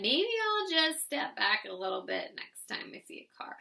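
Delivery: half-voiced note to self; under your breath. Shaken driver talking to themself, under the breath. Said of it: "you talk to yourself, maybe under your breath".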